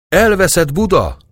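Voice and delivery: high, loud wail of doom; ghostly howl. A narrator's reading. Ghostly voice over the stunned army at Buda, howling. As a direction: cry it out like a ghostly voice. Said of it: "Üvölti egy kísérteti hang".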